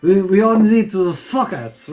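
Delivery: hammed-up French accent. Storyteller teasing crewmates about focusing, mock French accent. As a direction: put on a joking French accent. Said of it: "If I stop with a French accent".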